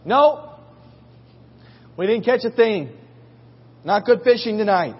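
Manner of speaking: high, loud reply across the water; acted long-distance shout; shouting back. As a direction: holler back to shore, imitating the fishermen. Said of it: "They're shouting back and forth".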